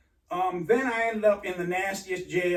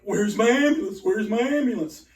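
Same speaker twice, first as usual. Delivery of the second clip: demanding shout; 5 dB louder than usual. Retold or imitated. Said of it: "I'm like".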